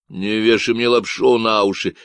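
loud, nasal Texan ranting about ecologists; a cocky stranger sounding off; the speaker's Texan voice. Acted. Stranger on the radio ranting about ecologists, nasal Texan.

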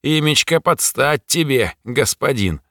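high, sly demon voice, smirking; mock respect, all teeth. Demon needles its new master, sly smirking voice. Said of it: "улыбнулась тварь".

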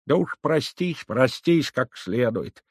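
put-on an old woman's high, slow grumble; grumbling old woman. A narrator's reading. Grandmother grudgingly lets the girl say goodbye, grumbling. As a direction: drag it out like a disgruntled granny. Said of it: "недовольно проворчала старуха".

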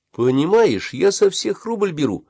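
high, drawn-out confiding tone. A narrator's reading. Boy begins to explain his price, confiding. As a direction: explain it as between friends. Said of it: "доверительным тоном начал он объяснять".

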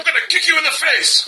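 high, loud crying shout. Shown as a demonstration. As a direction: scream it out. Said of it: "listener mail entries is titled".

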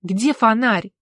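loud barked rebuke; loud barking snap. Acted. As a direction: bark at him to hurry. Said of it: "гаркнула Алла".

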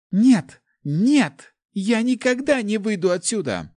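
high, loud frightened screaming; a terrified girl shrieks her refusal; girl's scream. A narrator's reading. Scared girl screams at her groom, refusing to leave. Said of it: "Девичий крик разносился".

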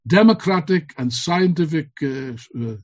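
rousing political speech, building to slogans; rally the comrades with fervor; fiery revolutionary speech. Acted.

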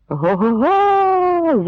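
very high, slow hammed-up guffaw; roaring laughter. Cossacks laughing all around, in a long mock roar. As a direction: laugh like the whole crowd. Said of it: "зареготали навколо".

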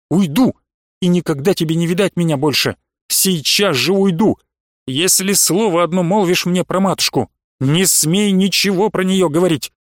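гневный резкий вскрик, немного громче; гневно пригрозить уйти; резким голосом. Acted. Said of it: "резким голосом она вскрикнула". (резко и гневно, без крика)

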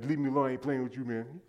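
a touch of sulky attitude, quick; lightly acted grumpy brush-off; little attitude. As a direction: brush them off, mildly put out. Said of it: "you got your little attitude".

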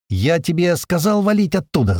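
high angry yell; angry shouted order. Acted. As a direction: scold him shouting. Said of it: "заорал Туман".

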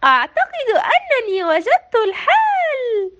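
slow, high, proud smiling; beaming smile. A narrator's reading. Sara telling mayor her solution, smiling. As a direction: announce it with a big smile. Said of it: "وبابتسامة واسعة".

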